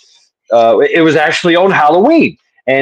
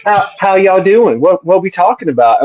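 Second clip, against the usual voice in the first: prissy innocent lady; 6 semitones higher than usual. Retold or imitated. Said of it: "all nice and prissy".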